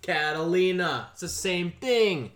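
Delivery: slow, drawn-out correction; exasperated insistence. Real, not acted. Insisting to co-host on another name for French dressing, exasperated. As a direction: stretch it out like it should be obvious.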